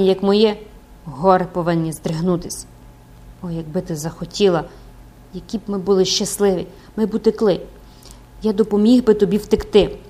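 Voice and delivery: impassioned priest begging for love; lovesick priest pleading. Acted. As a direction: plead earnestly, swelling as you go. (палке благання закоханого священика)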